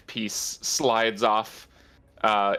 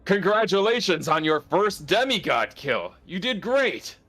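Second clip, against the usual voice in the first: laughing praise; 8 semitones higher than usual. Acted. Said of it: "he is just laughing, and he says".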